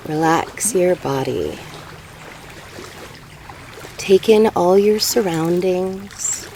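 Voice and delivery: slow meditation guide with long pauses; guided meditation. Real, not acted. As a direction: ease them into breathing, unhurried.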